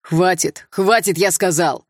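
lightly voiced man ordering, slow; a man's command, only lightly put on; a hint of a male voice. Young man breaks up the fight: lightly voiced male command. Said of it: "раздался вдруг мужской голос".

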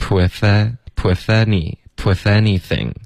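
"with anything" built up syllable by syllable; linked build-up. Shown as a demonstration. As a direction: drill "with anything", th joined to the a. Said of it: "第三段". (逐步叠加练习“with anything”连读)

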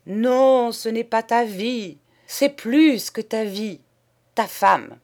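loud, high, insistent refusal; fervent demand. Acted. The poet demanding the painter's wife, loud and high. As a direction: press your claim with fervour.

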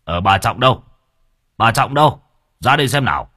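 insistent call, rising on the repeat. Acted. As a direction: call someone out of the crowd. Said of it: "ông Hinh liền gọi".

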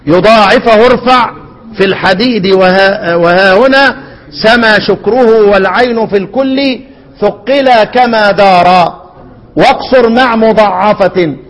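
slow, measured chant-like reading of verse; verse recitation. Acted. Teacher reciting the didactic poem to students, measured verse recitation. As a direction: recite the lines with drawn-out vowels.

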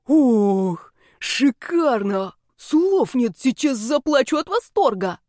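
drawn-out theatrical delight; mock rapture. A narrator's reading. Snake Yani swoons over the witch's graduation dress, slow and high.

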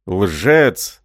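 roaring. Acted. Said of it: "заревел Рай".

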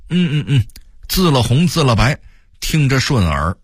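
pleased excitement. A narrator's reading. Old Beijinger hears the authentic local name, pleased excitement. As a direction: savour it on a high, pleased note. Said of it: "颇为兴奋地笑道".

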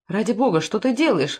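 ordinary delivery

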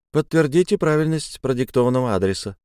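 mechanical recorded lady; like an automated hotline message; phone menu voice. Acted. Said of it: "продолжил автоответчик".

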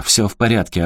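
резко огрызнуться, чуть громче; отбрей чужака; огрызнулся. Acted. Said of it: "огрызнулся Эрик". (Эрик огрызается на управляющего)

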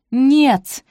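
sharp loud cry of no; shout. A narrator's reading. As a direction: shout the no straight at him. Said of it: "выкрикнула Софи".

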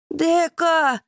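very high, loud protest; indignant shout. Acted. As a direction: refuse to leave her, outraged. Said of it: "возмущается он".

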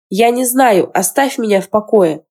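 exclaiming. Acted. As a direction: cry it out, close to tears. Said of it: "воскликнула Лисин".

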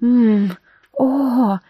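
short rising moan of pleasure. A narrator's reading. Olivia moans at the demon's touch, rising. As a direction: let a moan escape. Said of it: "простонала Оливия".

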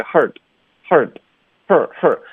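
"hard" with a squeezed, barely opened vowel; dropped ah vowel. Shown as a demonstration. Teacher imitating students' mistake, "hard" with the ah lost. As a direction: say "hard" without opening the mouth. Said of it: "很多的学生有时候会省这个啊的音".

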